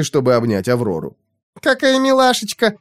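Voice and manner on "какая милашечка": high delighted squeal; squealing girl. Acted. Aurora squeals over her new pet. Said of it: "завизжала Аврора".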